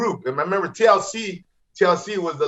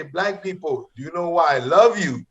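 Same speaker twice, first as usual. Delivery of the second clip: gentler suggested opener; 2 semitones lower than usual. Retold or imitated. Host coaching comic on a friendlier opener, gently suggested. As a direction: imitate a host coaching a kinder delivery. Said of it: "Start it that way".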